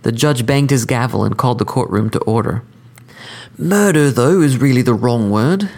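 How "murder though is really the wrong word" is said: cordial, sophisticated, pitched up; polished, courteous killer explaining; cordial sophistication. Acted. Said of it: "in a tone of cordial sophistication".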